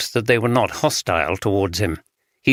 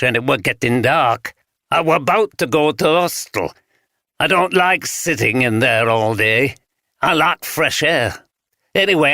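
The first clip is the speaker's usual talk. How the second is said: lightly voiced old vagrant in broad Yorkshire; broad Yorkshire accent; 4 semitones higher than usual. Vagrant tells detectives what he saw, light broad Yorkshire. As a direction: tell it plainly in a touch of broad Yorkshire. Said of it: "spoke in the broad Yorkshire accent".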